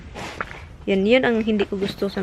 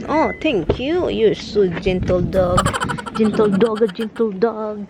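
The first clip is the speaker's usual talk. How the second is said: slow cooing praise; doting dog praise; 3 semitones lower, slower than usual. Real, not acted. Owner praising a gentle dog, slow doting coo. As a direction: stretch the words out for the dog.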